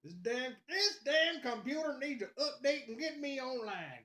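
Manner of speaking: high-pitched redneck southern gripe; redneck accent. Pretend. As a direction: complain in a hammed-up southern accent. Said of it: "my redneck's on point".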